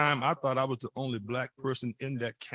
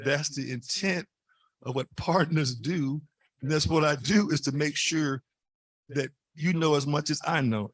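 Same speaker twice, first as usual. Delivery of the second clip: louder emphatic point; 2 semitones higher, 4 dB louder than usual. Real, not acted. Stresses his point to granddaughter.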